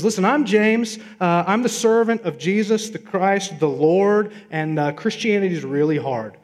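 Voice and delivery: a touch of no-nonsense apostle; blunt James. Acted. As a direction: play James cutting straight to it. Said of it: "He says".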